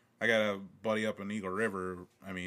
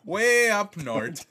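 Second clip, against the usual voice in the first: high, loud and slow; mock drawn-out punchline; 10 semitones higher, 10 dB louder, much slower than usual. Joking about what UP stands for, high slow drawl. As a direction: stretch it out like a yokel.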